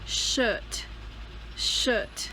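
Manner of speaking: "shirt" with no R, British style; silent R. Shown as a demonstration. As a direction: say "shirt" as "shuht". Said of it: "you don't have to say the R".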